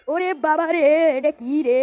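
loud startled cry; startled yelp. Acted. Cartoon character struck on the head, startled yelp. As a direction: yelp as if something just hit you.

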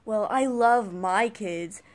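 slow, sweet mock mom voice; imitating a mom. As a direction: drawl it like a smug parent. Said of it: "that one mom where it's like".

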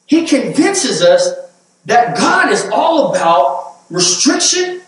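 high, loud preaching at full force; fiery preaching. Acted. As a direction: preach it out to the congregation, rising hard.

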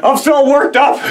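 laughing, pitch jumping up; real giggling fit mid-rant. Real, not acted. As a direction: crack up while talking. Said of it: "See how worked up you got me?".

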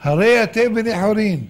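firm announcement, short of a full shout; explicit declaration. Retold or imitated. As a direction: declare it clearly and firmly. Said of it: "תאמר בפירוש".

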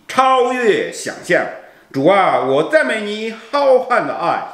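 earnest, devotional prayer-poem recital; slow emotional poem reading. Acted. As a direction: read it like a heartfelt hymn to God.

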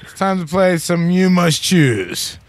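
slow, drawn-out show intro; stretched-out host's title call; game show announcer. Pretend. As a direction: announce the game with mock fanfare. Host announces the start of game.

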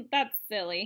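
amused laugh. Real, not acted. Laughs at the picture.

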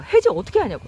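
retelling how she angrily asked the scammer; mock angry demand. Retelling demanding how to cancel, mock angry. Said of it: "막 열받는 거예요".

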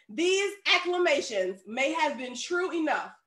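slow, deliberate commentary reading; reading aloud. A narrator's reading. Preacher reads a commentary to the congregation, slow and deliberate. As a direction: read it out carefully, word by word.

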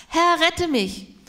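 loud, slow plea for rescue; desperate cry. Retold or imitated. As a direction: cry out slowly as if sinking. Peter cries out sinking.

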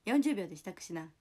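loud, abrupt character order; barked command. Acted. Streamer mimicking a film line ordering preparations, loud command. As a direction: order them to get moving, loudly.

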